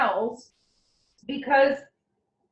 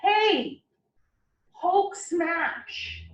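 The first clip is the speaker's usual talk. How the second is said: Hulk call; 5 semitones higher, much slower than usual. Pretend. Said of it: "the immunity group goes".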